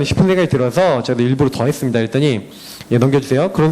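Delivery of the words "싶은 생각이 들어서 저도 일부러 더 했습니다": ordinary delivery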